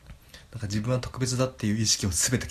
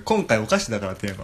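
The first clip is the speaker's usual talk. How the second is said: chewing while talking; mouth full; 3 dB louder than usual. Real, not acted. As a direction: talk through a mouthful. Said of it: "もぐもぐ食いながら".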